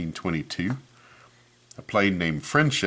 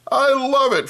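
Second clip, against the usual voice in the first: much higher, louder hooting voice for uncle Fred; hooting laugh; 8 dB louder, slower than usual. Acted. Uncle Fred hooting at Rosie's cheese hat, high loud hoot. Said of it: "Fred hooted".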